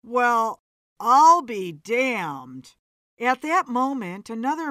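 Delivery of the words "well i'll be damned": slow, louder stunned reaction; astonished. A narrator's reading. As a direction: draw it out in amazement. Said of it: "The man gasped".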